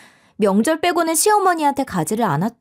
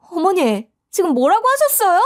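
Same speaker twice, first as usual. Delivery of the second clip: higher, incredulous challenge; affronted daughter-in-law; 8 semitones higher than usual. Acted. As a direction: demand to know what was just said. 모욕에 따지는 며느리. (기가 막혀 따지는 며느리)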